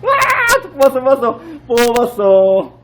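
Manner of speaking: high, crying-out win; triumphant. Real, not acted. Winning the prize.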